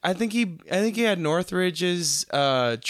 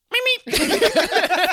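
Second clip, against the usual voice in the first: high cartoon bird meep; Road Runner meep; 13 semitones higher, 4 dB louder than usual. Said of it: "He's like".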